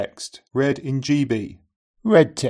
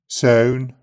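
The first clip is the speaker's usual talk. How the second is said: Brummie accent. Shown as a demonstration. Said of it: "In keeping with Northern English accents".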